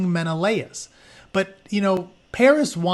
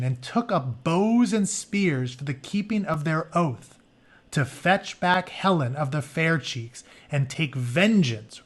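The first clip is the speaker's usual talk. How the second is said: story narration. Acted. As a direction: read the myth to the class like an epic. Reads story book aloud.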